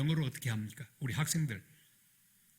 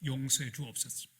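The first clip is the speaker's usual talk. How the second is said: repentant prayer; 5 dB louder than usual. Retold or imitated. The pastor repenting to God on the bridge, building from humble plea to loud cry. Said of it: "회개하기 시작했습니다".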